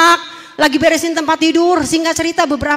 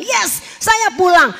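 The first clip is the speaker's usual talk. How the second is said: eager yes; 5 semitones higher, slower than usual. Retold or imitated. Relieved answer to God's offer.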